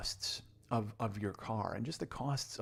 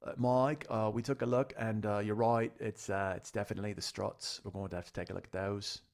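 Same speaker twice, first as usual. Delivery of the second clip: imitating a mechanic's accent, unsure of it; shaky Liverpudlian accent. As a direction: loose British-Aussie accent, reporting back. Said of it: "I don't know if I'm doing a Liverpudlian".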